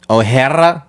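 O'Hara with a Hispanic twang; Hispanic accent. Shown as a demonstration. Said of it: "And then Hispanic would be".

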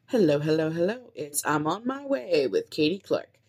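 smooth radio host introducing a song; radio host intro. Shown as a demonstration. Podcaster trying an intro, radio host voice. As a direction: croon it like a DJ. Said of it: "sounds like a radio host".

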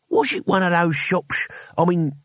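slushy, lisping character voice; weary old Cohen. Acted. Cohen sagged on a rock questioning the owner, suspicious. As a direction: slur it like an old warrior piecing things together.

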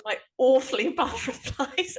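awfully bad in a mock posh English accent; a posh English lady, laughing; teasing a friend in a posh English accent. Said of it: "it was so posh".

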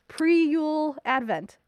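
slow, emphatic whisper of "Pre-Yule Advent"; conspiratorial slow whisper; eager whisper. Real, not acted. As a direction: breathe out "Pre-Yule Advent" slowly, voiceless. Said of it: "excited aside".

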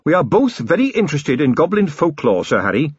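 lightly voiced polite captain. Carrot deflects politely.

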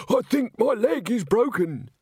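high, plaintive complaint; hammed-up wounded victim; opportunistic malingering. A narrator's reading. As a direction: plead injury hoping for time off. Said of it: "he added quickly, in the voice of one".

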